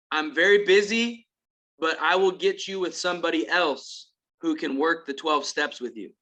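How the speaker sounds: imitated country cowboy accent. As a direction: quote him in a light country accent. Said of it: "real strong country accent like this".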